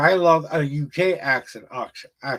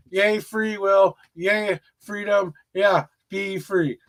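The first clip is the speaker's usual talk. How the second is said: mock cheer; 3 semitones higher, much slower than usual. Mock cheers ending spiel.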